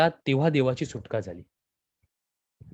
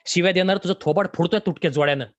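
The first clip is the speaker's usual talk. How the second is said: higher, faster, threatening outburst; louder, raging challenge at the doctor; furious shout; 5 semitones higher, 4 dB louder than usual. Acted. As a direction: roar it out, raising the broken shoe. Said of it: "घेऊन ओरडला".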